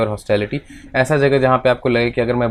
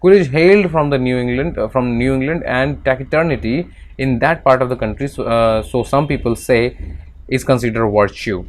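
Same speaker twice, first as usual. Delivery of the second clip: slow, careful text reading; measured classroom reading; reading aloud; much slower than usual. Acted. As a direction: read it out slowly like a passage. Reads English text aloud.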